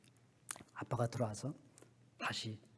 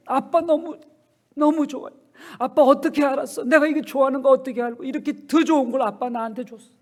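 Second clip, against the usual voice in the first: higher, louder gush of delight; overjoyed girl; 10 semitones higher, 13 dB louder than usual. Acted. Girl thanks father for the real pearls, excited. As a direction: squeal your thanks to dad. Daughter thrilled by the gift.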